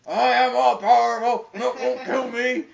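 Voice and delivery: loud hammed-up villain voice; mock boastful troll. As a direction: boom it out like a mock troll tyrant.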